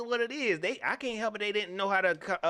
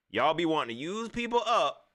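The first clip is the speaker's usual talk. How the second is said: laughing accusation. Real, not acted.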